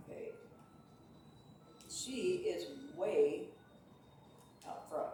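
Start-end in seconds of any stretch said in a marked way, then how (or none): 1.9-5.1 slow, loud excited call. Real, not acted. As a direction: cheer the leader on. Horse pulling ahead in race.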